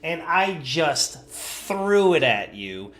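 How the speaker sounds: slow, drawn-out put-down; imitated scornful woman, dragging each word; cutting contempt. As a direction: stretch it out to belittle someone. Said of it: "it was the way she said it".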